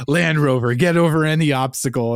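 mild announcer read; car ad voice. Retold or imitated. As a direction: pitch it like a car commercial. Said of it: "cool Jeep commercial ... where it's like".

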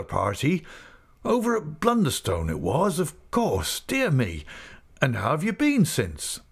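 put-on old man delighted by a sudden memory; old Mister Omer.

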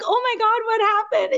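high-pitched imitated alarm; lightly hammed-up gasp of onlookers; mock shock. Everyone seeing her return with a dagger, mock shocked.

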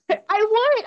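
high, bleating laugh; bleating goat laugh. Pretend. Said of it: "That was my impression of a goat".

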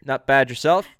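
Canadian accent. Shown as a demonstration. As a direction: demonstrate a chummy Canadian exchange. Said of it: "can you do a Canadian accent".

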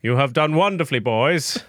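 lightly voiced lord praising his boys; Igneous. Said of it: "Igneous himself sits at the head of the table and says".

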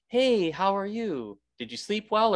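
offhand greeting. Retold or imitated. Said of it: "I didn't give my full attention to it".

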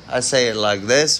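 put-on accent, rising on THIS; fake accent. Shown as a demonstration. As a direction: say "this" in a fake accent, lifting it at the end. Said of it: "It's all fake accents".

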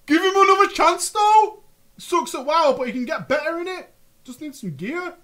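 put-on high, loud chav accent; cocky London chav pleading for his mate; rough London slang. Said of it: "Do another chav accent".

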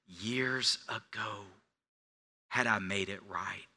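soft regretful whisper. Real, not acted. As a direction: breathe it out in regret. Regretful confession in sermon.

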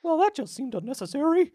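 high, put-upon villain voice; offended villain. Acted. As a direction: sound wounded and prissy.

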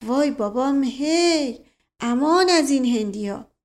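lightly voiced old servant's lament; folksy servant voice. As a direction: moan it like a village servant. Mash Qasem's voice, countryman.

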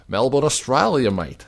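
a quick mock Aussie sign-off, badly done Australian accent; terrible Australian accent. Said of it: "A terrible Australian accent".

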